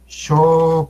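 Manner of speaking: teaching "Xoconochtli" piece by piece with sh; syllable-by-syllable pronunciation. Shown as a demonstration. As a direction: break "Xoconochtli" into separate syllables. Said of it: "sí lo pronuncian bien".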